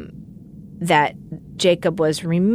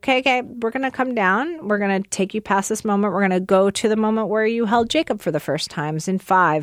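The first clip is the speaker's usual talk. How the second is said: soothing therapist counting down; calm grounding exercise; 3 semitones higher than usual. Retold or imitated. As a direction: guide her down gently. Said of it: "the therapist's voice came in".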